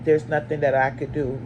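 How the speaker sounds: slow, low, unbothered mom; mildly imitated calm mother on the phone. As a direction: imitate the neighbor mom's calm drawl. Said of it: "She talking like this, y'all, calm".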